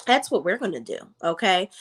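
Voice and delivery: mocking the mother's firm no; firm refusal. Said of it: "She was like".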